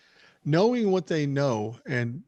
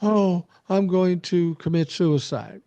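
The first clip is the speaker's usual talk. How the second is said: slow, exaggerated woe-is-me quote; lightly mock a self-pitying victim; 2 semitones higher, slower than usual. Host imitating bullies who turn victim once cornered, mock self-pity. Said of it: "they become the victims and say".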